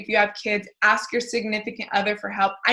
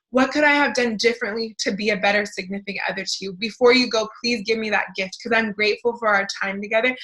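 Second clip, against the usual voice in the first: grateful reply; 2 semitones higher than usual. Pretend. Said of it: "So we get to have gratitude. We get to say".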